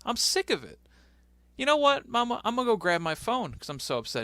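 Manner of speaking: high, loud mock tantrum, rushed at the end; mock upset Shelton. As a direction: squeal it like a mama's boy complaining to Mama. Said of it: "Shelton's like".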